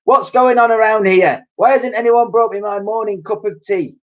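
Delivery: put-on high, loud ranting old woman; shouting grandma. A narrator's reading. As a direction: bellow complaints at the family. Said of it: "and she shouted".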